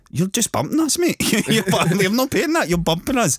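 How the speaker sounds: high-pitched, heated mock protest; worked-up haggling, pitched high; indignant retold protest. Retold taxi fare protest, Scottish.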